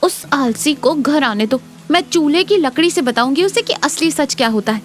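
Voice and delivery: indignant wife making threats; scolding wife. Acted. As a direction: scold like a fed-up village wife.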